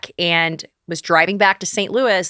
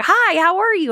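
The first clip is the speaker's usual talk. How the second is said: mock sweet greeting; 12 semitones higher than usual. Imitating friendly Nashville locals.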